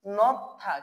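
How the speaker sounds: নথা with a stop before থা; careful two-beat নথা; pronunciation model. Shown as a demonstration. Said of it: "একটি শব্দ লিখছিলাম".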